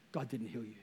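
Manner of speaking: very soft, low hushed line; devil's whisper. Retold or imitated. Satan hushing doubt into a healed believer's ear, very soft. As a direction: breathe it like a sly whisper of doubt. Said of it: "He whispers".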